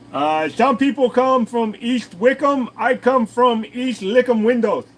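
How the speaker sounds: high, loud, slow put-on accent; lightly hammed posh English; mock posh accent. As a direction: ham up a fancy English accent. Joke accent bit.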